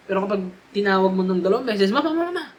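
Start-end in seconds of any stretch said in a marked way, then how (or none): 1.9-2.4 much higher, urgent repeated "Mama"; with feelings. Shown as a demonstration. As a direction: call "Mama" over and over, pleading. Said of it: "may feelings na yun". (paulit-ulit na "Mama" na mataas at may damdamin)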